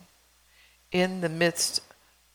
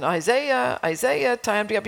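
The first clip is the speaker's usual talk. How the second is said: put-on calling out to wake a child, name pitched up; mild retold yell; 3 semitones higher than usual. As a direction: imitate a parent's wake-up call, half-strength. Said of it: "I kept yelling".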